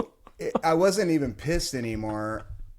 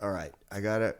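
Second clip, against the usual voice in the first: quietly talking himself down, lower; calming down; 5 semitones lower, 5 dB quieter, faster than usual. Retold or imitated. Man cooling off after getting worked up, calming down. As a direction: settle yourself, softly. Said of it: "I'm calming down".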